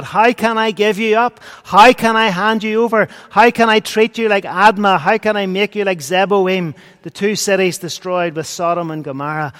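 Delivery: pleading God. Acted. God pleading with his people.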